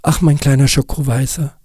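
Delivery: höher, neckend liebevoll; scherzhaft. Acted. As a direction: zieh ihn freundlich auf. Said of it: "sagte Kass scherzhaft". (Kass neckt den weinenden Nick)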